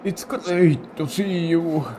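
slow, lightly voiced old grandpa. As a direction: play the kindly old grandfather. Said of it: "should I do the Grandpa voice?".

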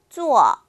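坐 said as a clean falling zuò; 坐 spoken slowly for students to copy; modeled zuò. Shown as a demonstration. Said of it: "어떻게 발음한다 그랬죠".

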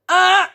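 loud imitated reject buzzer; short, high blaring buzz; X-Factor buzzer. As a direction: buzz them out. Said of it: "Heb je wel eens X-Factor gezien?".

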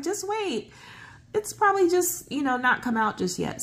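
reassuring. Retold or imitated. Calming her panicked brother, retold.

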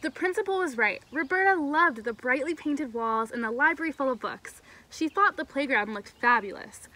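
clear, animated storybook reading; story read-aloud. A narrator's reading. Camp leader reading a story to kids, animated storytelling. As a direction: read expressively to a group of children.

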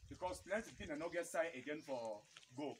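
ordinary delivery

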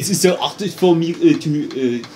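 halting mock-French English; hesitant put-on French; French accent. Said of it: "to do the French".

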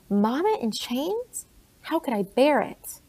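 put-on a girl starting to cry over her mother; mild weeping plea. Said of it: "began to weep".

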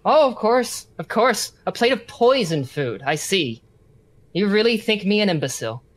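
put-on prisoner's affected accent; Sturgeon's accent. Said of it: "like how Sturgeon lost his accent".

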